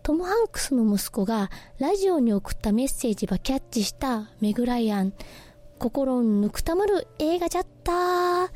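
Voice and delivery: listener's message read in gentle Nagasaki dialect. Acted. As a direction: read it out in Nagasaki dialect, drawing out the final phrase. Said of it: "心のこもった長崎愛たっぷりの長崎弁". (長崎弁で読み上げる)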